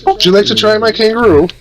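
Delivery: put-on a joking Australian accent for the stream; mock Australian accent. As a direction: offer it in a cheesy Australian accent. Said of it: "Australian accent way".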